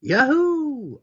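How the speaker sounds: loud, high whoop of joy; excited cheer. A narrator's reading. Boy whooping on his way to school, excited.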